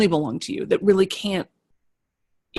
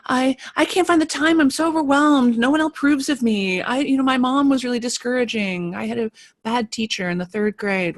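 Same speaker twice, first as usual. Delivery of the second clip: higher, fretful voice of a stuck creative; mock the anxious artist's complaints, pitched up; whiny insecure voice; 6 semitones higher than usual. Voicing a blocked student's worries, high and whiny. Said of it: "if your questions are in the realm of like".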